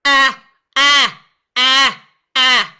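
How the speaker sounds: very loud pressed ah with squeezed folds; direct pressing. Shown as a demonstration. Teacher demonstrating direct pressing. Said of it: "what I call direct pressing".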